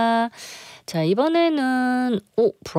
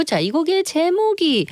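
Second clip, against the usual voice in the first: usual speaking voice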